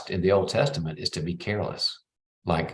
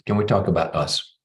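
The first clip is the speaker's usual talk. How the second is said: gentle opener. Shown as a demonstration. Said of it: "Just say".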